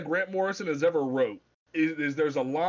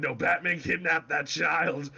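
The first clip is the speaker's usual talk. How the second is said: frantic retold protest. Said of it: "It's like".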